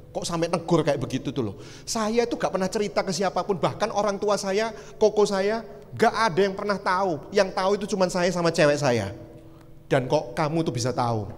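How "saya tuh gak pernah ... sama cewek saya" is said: higher-pitched, incredulous insistence; retold astonished protest. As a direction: protest as if your secret got out. Retold startled man protesting his secret.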